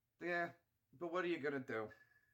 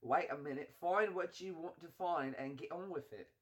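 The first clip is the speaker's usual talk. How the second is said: grumbling mock British accent; put-on British accent. Streamer telling a mate to get on with it, mock British. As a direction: nag lightly in a British accent.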